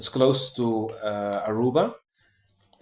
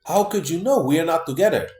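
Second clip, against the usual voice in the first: like the screen just read his mind; shocked disbelief; 5 semitones higher than usual. Retold or imitated. Shocked reply to the chat.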